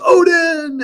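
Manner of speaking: high, loud, drawn-out shout; acted battle cry. Old Viking jumping into the pit of wolves, acted war cry. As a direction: roar the god's name as if leaping to death.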